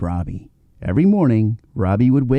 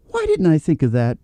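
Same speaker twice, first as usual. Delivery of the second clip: happily; 4 semitones higher than usual. Acted. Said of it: "Bart said happily".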